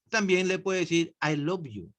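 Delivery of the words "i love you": softer, as if to one person. Shown as a demonstration. Teacher shows saying it to one person, softer. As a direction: tell just one person, softly. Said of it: "a una sola persona".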